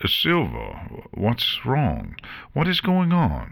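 anxious, pitch climbing to the last question; nervous. A narrator's reading. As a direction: ask with mounting worry. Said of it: "Mortar asked nervously".

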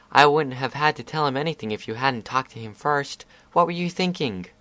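lightly voiced indignant filly; accusing filly. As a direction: demand an answer like a cross kid. Scootaloo accuses Crystal Ball.

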